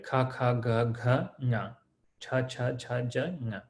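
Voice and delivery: syllable-by-syllable recitation, tapering off; reciting the letters. Shown as a demonstration. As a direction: read out the Devanagari row like a teacher drilling. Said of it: "this chart I'm sure you've seen".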